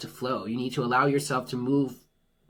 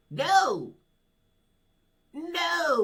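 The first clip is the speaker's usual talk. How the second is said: emphatic no; 12 semitones higher than usual. Real, not acted. Rejecting control over free will.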